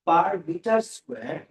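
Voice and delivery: drawn out very slowly, word by word; slow repeat. Shown as a demonstration. Teacher repeating the unit slowly for the class. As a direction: spell it out slowly so it sinks in. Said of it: "আবার বলি".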